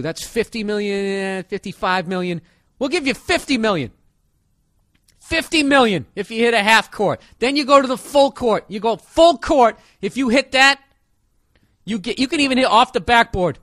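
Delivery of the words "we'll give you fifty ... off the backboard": hyped announcer shouting. Pretend. Host escalating to full court.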